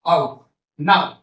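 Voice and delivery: आओ, नाउ drawn out slowly with the glide from आ to ओ; slow diphthong demo. Shown as a demonstration. Teacher showing students the आओ glide, slowly drawn out. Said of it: "ऐसे ही आओ".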